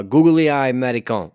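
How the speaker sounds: fumbling attempt at "Guglielmo Marconi"; botched Italian name. Real, not acted. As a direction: stumble through "Guglielmo Marconi", mangling the syllables. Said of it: "no, that's wrong".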